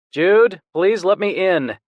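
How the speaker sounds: a hint of a worried younger brother begging; pleading brother. Brother knocking, pleading at door.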